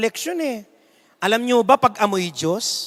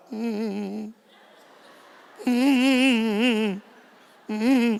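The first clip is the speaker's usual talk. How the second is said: crowd humming; 4 dB quieter, much slower than usual. Retold or imitated. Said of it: "Sabi ng mga tao".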